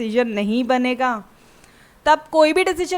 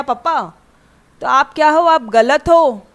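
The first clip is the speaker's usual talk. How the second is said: imitating a yell; 2 semitones higher, 3 dB louder than usual. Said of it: "घर में चिल्ला चिल्ला के बोलेगी".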